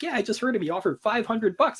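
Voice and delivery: high, breathless retold warning to a friend; urgent warning. Warning Andrew about the hit, high urgent voice. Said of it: "He's like".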